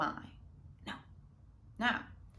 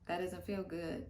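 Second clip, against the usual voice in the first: inner questioning; 3 dB quieter than usual. Retold or imitated. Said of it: "It's like".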